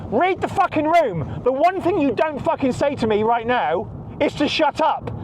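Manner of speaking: furious warning not to be told to shut up; angry retort. Real, not acted. He rounds on his mother-in-law in real anger.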